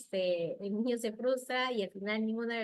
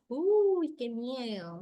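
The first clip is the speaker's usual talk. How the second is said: hammed-up scared gasp, much higher and louder; mock fright; 3 semitones higher, 7 dB louder, much slower than usual. Shown as a demonstration. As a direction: play up the fear for a child's story. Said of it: "no es... hablarle monótonamente".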